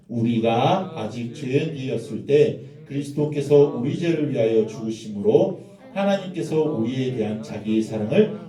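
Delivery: slow, solemn group reading; scripture reading. Shown as a demonstration. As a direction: read the verse aloud together. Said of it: "같이 한번 읽어보겠습니다".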